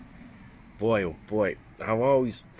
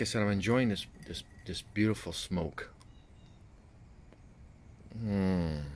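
talking around pipe stem; pipe in mouth; 4 dB quieter than usual. Real, not acted. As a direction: lips clenched on stem. Seen 2: Pipe stem held between lips throughout labelled words, smoke visible.

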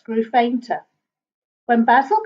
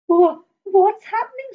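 startled; 9 semitones higher, 3 dB louder than usual. A narrator's reading. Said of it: "said Basil as his hammock bounced".

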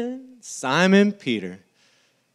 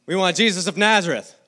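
quick, sure demand; confident; 3 dB louder, faster than usual. Retold or imitated. Soldiers first answering Jesus, confident and quick. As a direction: say it like you're in charge. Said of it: "First time".

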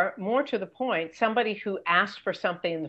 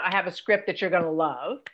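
overconfident pitch line; faster than usual. Shown as a demonstration.

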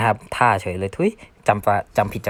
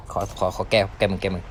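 softer, lower sheepish plea; soft pleading for a redo; 3 semitones lower, 6 dB quieter than usual. Real, not acted. Teacher sheepishly begging viewers for a redo, softly. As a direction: ask quietly for one more try.

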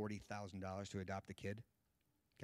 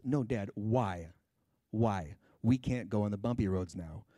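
very loud acted childish protest; full-volume mock tantrum; angry little kid; 13 dB louder, slower than usual. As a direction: wail at dad like an outraged five-year-old. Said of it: "an angry little five-year-old".

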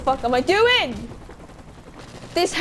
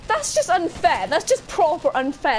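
indignant whining; 3 semitones higher than usual. Real, not acted. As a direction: whine like a wronged player. Complaining after being killed in game.

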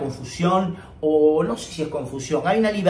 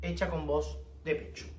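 head voice demo; 12 dB quieter than usual. Shown as a demonstration. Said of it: "Lo voy a hacer una vez más".

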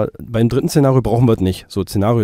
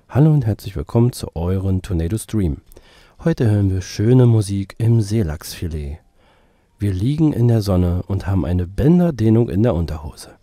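lower, intimate close-mic voice; 3 semitones lower than usual. Shown as a demonstration. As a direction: speak right into the mic, lower. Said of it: "jetzt bin ich ganz nah am Mikrofon".

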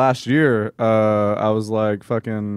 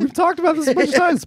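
exasperated. Real, not acted. Exasperated reply about his age.

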